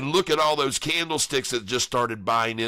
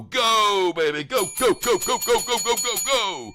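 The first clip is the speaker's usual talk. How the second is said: high, loud rapid-fire chant; excited cheering; 10 semitones higher, 4 dB louder than usual. Real, not acted. Trader urging his stock upward, excited high cheering. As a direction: whoop it on at a much higher pitch.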